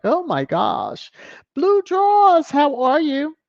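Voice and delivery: squealing high, loud fan greeting; gushing fan. Retold or imitated. Host mimics fans gushing to greet Blue Draws, squealing high. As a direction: gush like an excited fan. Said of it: "some people ... are like".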